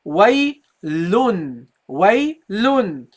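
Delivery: "waylun" slowly, ending on a clear n; normal tanween ending. Shown as a demonstration. Teacher shows the normal reading, clear n ending. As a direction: sound the final n in "waylun". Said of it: "normally you would say here".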